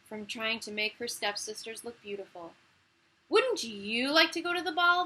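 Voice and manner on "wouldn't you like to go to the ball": high, loud mocking question; cruel teasing. Stepsisters taunting Cinderella about the ball, high mocking. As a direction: taunt her with it. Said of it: "teasing her cruelly".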